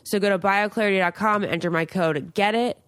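upbeat sponsor read. Acted. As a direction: sell it like a host ad. Sponsor read for acne product.

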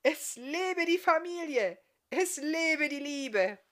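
laut, langsam und feierlich ausgerufen; herrlichster Bariton. Acted. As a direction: ruft wie ein Zirkusdirektor die Feier aus. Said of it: "rief mit seinem herrlichsten Bariton". (Bartriese ruft feierlich laut in die Manege)

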